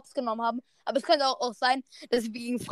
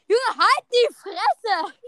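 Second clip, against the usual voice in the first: higher and very slow, dragged-out scolding; angry shut up; 7 semitones higher, much slower than usual. Real, not acted. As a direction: spit out every word at him. Telling someone to shut up.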